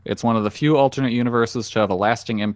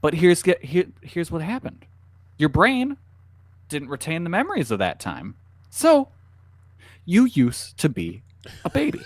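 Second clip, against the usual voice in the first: clickbait video narrator; 5 semitones higher than usual. Pretend. Mock trivia video narration.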